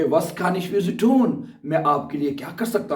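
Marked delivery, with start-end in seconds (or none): 0.0-1.3 very slow, every German word spelled out for learners; slow dictation. Shown as a demonstration. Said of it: "वो कहेंगे".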